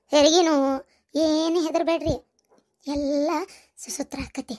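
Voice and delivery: low-key, settled comforting; steady the frightened listeners; calm reassurance. Acted. Mother-in-law telling them not to fear labour, calm.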